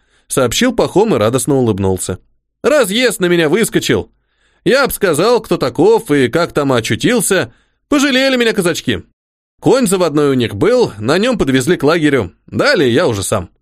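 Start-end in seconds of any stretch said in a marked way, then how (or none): 2.6-13.5 simple soldier voice. Acted. The orderly Pakhom speaking.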